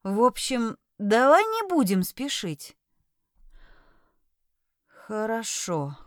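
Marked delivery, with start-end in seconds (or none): 5.1-6.0 displeased mutter. Acted. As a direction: mutter it, unhappy. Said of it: "пробормотал он недовольно".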